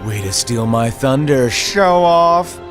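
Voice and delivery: sulky jab at being upstaged; peeved. Acted. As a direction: grumble rising into a loud jab. Master upstaged by pupil's deduction.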